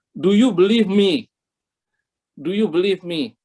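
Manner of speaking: slow, emphatic question, starting firm then easing; lightly voiced divine question; God's question voiced. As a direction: ask it slowly, each word weighed. Voicing God's written question.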